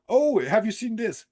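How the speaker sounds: calling it out to anyone listening; retold shouting. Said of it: "I was shouting that out".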